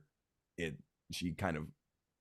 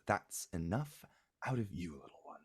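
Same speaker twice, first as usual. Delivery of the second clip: stern mother. Acted. Mother hushes the child.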